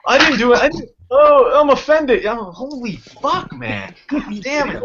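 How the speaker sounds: high, hammed-up protest of innocence; mock offended. Mock denial after fake outrage.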